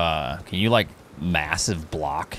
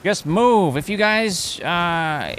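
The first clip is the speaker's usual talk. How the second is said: high, squeaky bat chest voice; 10 semitones higher than usual. Pretend. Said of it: "that's my bat chest voice".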